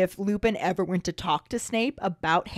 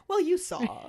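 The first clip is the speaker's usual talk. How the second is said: smug, higher pitch; 9 semitones higher than usual. Retold or imitated. Quote retold with higher pitch.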